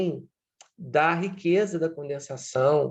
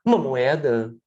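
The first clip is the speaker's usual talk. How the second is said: louder, pleading beggar voice repeated; homeless man begging; 4 dB louder than usual. Retold or imitated. Homeless man asking every passer-by for a coin, loud pleading. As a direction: ask passers-by for a coin, over and over. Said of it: "isso é a clássica estereotipia".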